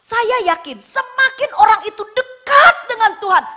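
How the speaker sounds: loud, emphatic conviction; forceful preaching. Real, not acted. Preacher correcting a misunderstanding, loud and emphatic. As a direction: punch out the key words loudly.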